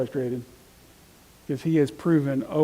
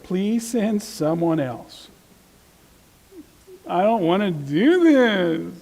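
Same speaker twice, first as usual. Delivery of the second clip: slow, whiny plea to be let off; reluctant Moses; 4 semitones higher, much slower than usual. Retold or imitated. Teacher voicing Moses begging God to send someone else, slow and whiny. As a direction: drag it out like a reluctant man begging off.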